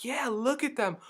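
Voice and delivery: high, loud mock yell; screaming lady. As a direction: imitate an outraged onlooker calling out. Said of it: "this lady's screaming".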